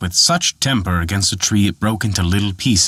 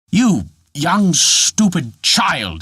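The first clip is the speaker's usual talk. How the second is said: exclaiming; 7 semitones higher, much slower than usual. A narrator's reading. Dwarf to Peter, hammed-up scolding exclamation. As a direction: scold the foolish boy. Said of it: "exclaimed the dwarf".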